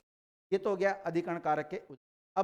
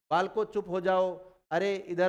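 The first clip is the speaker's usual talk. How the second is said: calling out; 4 dB louder than usual. Shown as a demonstration. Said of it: "example of calling out".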